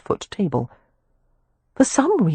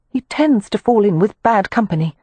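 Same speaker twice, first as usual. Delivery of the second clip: put-on raised, polite young lady; Amelia's voice; 5 semitones higher than usual. Amelia addressing the club manager, formal and raised. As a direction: speak up, formally courteous.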